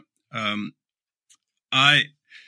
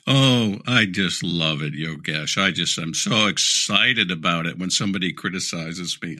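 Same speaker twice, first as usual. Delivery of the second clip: mock excitement in a lowered voice; sarcastic; 5 semitones lower than usual. Leader answering a question on criticism, sarcastic. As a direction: gush with deadpan, insincere enthusiasm. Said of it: "I'm being sarcastic".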